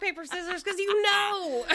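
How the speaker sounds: high, laughing words. Real, not acted. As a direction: break into laughter mid-line. Joking about rock paper scissors.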